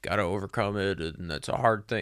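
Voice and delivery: soft, goofy, dumbed-down derisive parroting voice. Speaker parroting what everyone always says about ice baths, in a dumb mocking imitation voice. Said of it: "that dumb imitation voice I just did".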